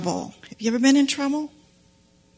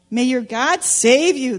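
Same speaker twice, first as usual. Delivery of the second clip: hopeful king; 3 dB louder than usual. Acted. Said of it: "the king said hopefully".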